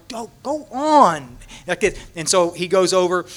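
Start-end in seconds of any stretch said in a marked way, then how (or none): 0.1-1.4 slow, higher coaxing push; urging him on. Retold or imitated. Speaker urging Dennis toward the newcomer, slow coaxing. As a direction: nudge him along gently. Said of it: "And I'm going".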